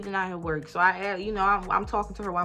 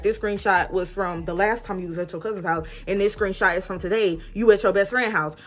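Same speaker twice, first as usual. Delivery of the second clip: heated accusation; 7 dB louder than usual. Retold or imitated. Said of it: "I showed her the date".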